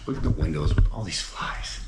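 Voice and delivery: hushed whisper at the window. Real, not acted. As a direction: breathe it out in a whisper. Creepy flies in attic windows.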